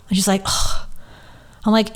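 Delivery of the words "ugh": exasperated sigh. Retold or imitated. Retold reluctant sigh at her plea.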